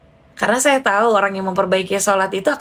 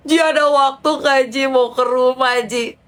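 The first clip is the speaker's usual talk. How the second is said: pleading friend; 4 semitones higher than usual. Retold or imitated. Distressed friend asks to come over.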